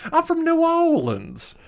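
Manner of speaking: exaggerated New Orleans accent, deliberately awful; over-the-top New Orleans accent. Shown as a demonstration. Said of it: "it sounds awful".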